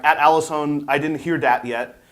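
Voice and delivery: dramatic reading in a lightly put-on Ebonics voice; mock Ebonics voice. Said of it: "Ebonics voice".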